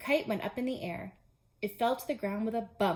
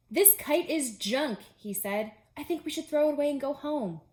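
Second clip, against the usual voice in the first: fed-up Toad; 5 semitones higher, 4 dB louder than usual. Acted. Discouraged Toad gives up.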